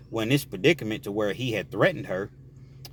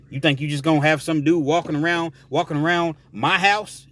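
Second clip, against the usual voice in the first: angry inmate; 3 semitones higher than usual. Acted. Inmate threatening his girlfriend over the phone, mildly angry.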